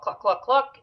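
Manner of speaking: imitated clucking. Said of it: "do his little cluck".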